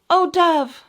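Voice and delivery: high little mouse voice. Acted. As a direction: squeak it like a mouse. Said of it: "Mother Mouse said".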